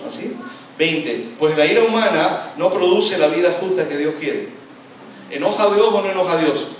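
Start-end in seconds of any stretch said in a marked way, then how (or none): 1.4-4.5 loud, higher, flowing scripture reading; emphatic verse reading. Shown as a demonstration. Preacher reading the verse to the congregation, loud and emphatic. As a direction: proclaim the verse in one forceful run. Verse read through, then word by word.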